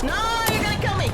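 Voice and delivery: high, loud terrified shriek; panicked scream. Real, not acted. Streamer losing the fight, shrieking in panic. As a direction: shriek like you're about to die.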